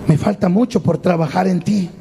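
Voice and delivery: low, calm reassurance; lightly acted patient craftsman; patient potter. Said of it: "viene el alfarero y dice, "Paciencia".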